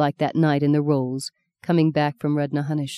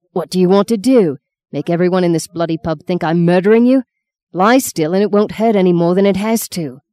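angry hushed scolding; 5 dB louder than usual. Acted. Husband silencing wife's scream.

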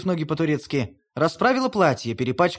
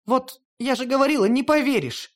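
higher, a touch hurt and pouty; pouting; 8 semitones higher than usual. Acted. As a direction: sulk at him. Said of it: "обиженно надув губки". (обиженно, надув губки)

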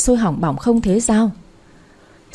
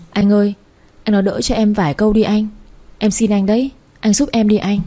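a touch of sobbing plea, slightly raised; tearful begging. Acted. Trà clinging to her husband's legs, mildly tearful begging. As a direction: beg him, voice a little teary and pressing. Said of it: "ôm chặt lấy chân chồng nước nở".

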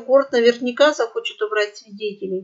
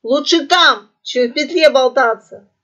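squawky parrot; 5 semitones higher, 7 dB louder than usual. Acted. Parrot answers in its voice.

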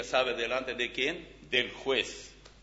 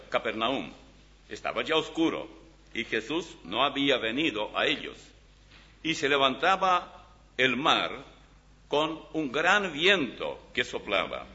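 scripture reading. Acted. Reads John aloud from Bible.

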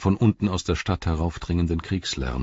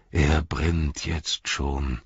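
sad; 3 semitones lower, much slower than usual. Acted. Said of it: "sagte er traurig".

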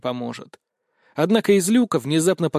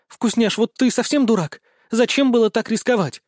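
scolding goddess; 8 semitones higher, 3 dB louder than usual. Acted. Goddess scolding the reckless hero.

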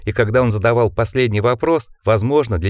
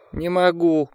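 higher pleading moan; 8 semitones higher, slower than usual. Acted. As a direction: groan it out, higher. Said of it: "простонал Ричард". (мягкий жалобный стон)

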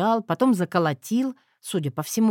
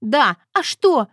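slow, louder, higher sobbed answer; sobbing reply; 5 semitones higher, 6 dB louder, slower than usual. A narrator's reading. Wife sobbing to her husband about the shed, tearful. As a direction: sob the words out. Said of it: "всхлипнула я".

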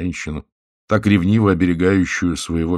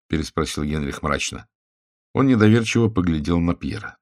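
ordinary delivery

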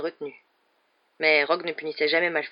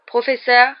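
loud, raised-pitch call to the teacher; whiny drawl, pitched up and loud; drawling schoolboy; 7 semitones higher, 10 dB louder, slower than usual. A narrator's reading. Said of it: "dit Malfoy de sa voix traînante".

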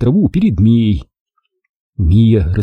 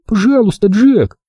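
high, moderately raised pleading call; pleading cry; 10 semitones higher than usual. A narrator's reading. Mia begs Jack to fly once more, pleading cry. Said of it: "закричала Мия".

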